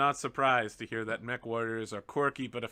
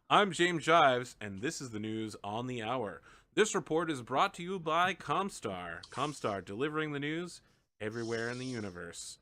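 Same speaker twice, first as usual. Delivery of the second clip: parody news anchor; 3 semitones lower than usual. Acted. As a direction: read it like a cheesy TV anchor. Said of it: "he's like".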